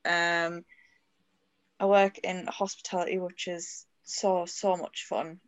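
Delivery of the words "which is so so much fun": dry, drawn-out sarcasm on "so"; sarcastic. Real, not acted. Guest telling podcast hosts about a hospitality job, sarcastic. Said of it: "That's, that's sarcasm".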